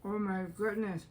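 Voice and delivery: talking while chewing; words round a bite; mouth full. Real, not acted. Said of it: "I have to speak with my mouth full".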